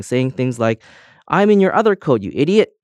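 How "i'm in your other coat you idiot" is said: higher, louder exasperated yell. A narrator's reading. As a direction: yell upward at a careless owner. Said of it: "the keys kept yelling up".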